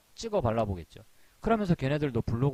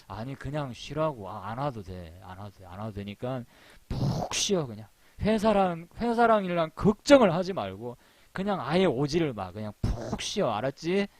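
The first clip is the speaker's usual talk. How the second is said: mock pushy boss. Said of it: "이럴 것 같아요".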